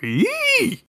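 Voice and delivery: tiny cartoon yelp, very high; squeaky anime yelp. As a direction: squeal it like a magical girl. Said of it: "there was my little audition to be a voice actor".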